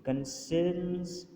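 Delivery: کنسرنز said slowly with the first syllable کن stressed; teacher models کنسرنز, leaning on the first syllable; stress demo. Shown as a demonstration. Teacher showing students the stress in کنسرنز, slow and deliberate. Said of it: "ہم سی پر زور دیں گے".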